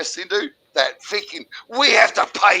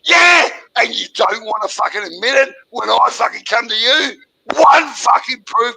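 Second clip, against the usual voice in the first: angry shout; 3 semitones higher, 4 dB louder than usual. Real, not acted. Caller yelling at Gordon who belittled people, angry shout. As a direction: shout him down.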